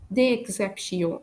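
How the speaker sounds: French "exceptions" with no S at the end; silent final S. Shown as a demonstration. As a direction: end "exceptions" on the nasal vowel. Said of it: "I don't pronounce the letter S".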